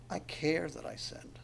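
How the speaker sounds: slow, breathy whisper; whispered confession. Acted. Preacher voicing the sinner's confession, slow whisper. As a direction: say it as a private admission.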